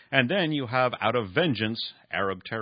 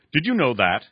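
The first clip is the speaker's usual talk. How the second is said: put-on a raspy, louder old man's question; rasping; 5 semitones higher, 9 dB louder than usual. A narrator's reading. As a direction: rasp out the question sharply. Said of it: "Esau rasped".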